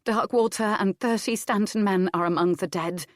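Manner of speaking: grave news. Acted. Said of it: "Adair told him".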